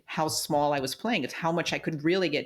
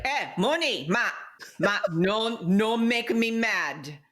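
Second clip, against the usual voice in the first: hammed-up Italian accent, higher and drawn out; mad Italian mom; 6 semitones higher, slower than usual. Daughter imitates her mother on request, mad Italian voice. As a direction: imitate an angry Italian mother, stretching the words. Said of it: "say that in a strong, mad Italian voice".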